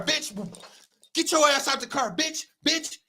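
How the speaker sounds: imitating cops cursing him out; mock cop yelling. Imitating the officers dragging Brian from the car, mock yell. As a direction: bark it like an angry cop. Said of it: "How many bitches did they call him?".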